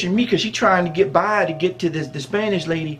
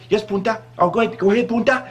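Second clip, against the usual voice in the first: higher-pitched mock dare; daring Spanish lady; 4 semitones higher, faster than usual. Spanish lady answering the challenge, high mock dare. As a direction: imitate a Spanish lady egging someone on.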